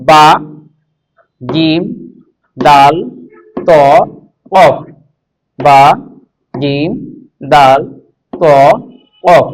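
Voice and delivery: বা, জিম, দাল, ত, কফ each said short and apart; counting letters on fingers. Shown as a demonstration. Teacher listing the letters for students on the fingers. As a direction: tick off the letters one by one. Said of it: "ডান হাতে এবার ধরি".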